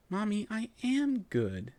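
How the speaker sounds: slow high tearful protest; sniffling. A narrator's reading. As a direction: sniffle it out slowly. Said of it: "I sniffled".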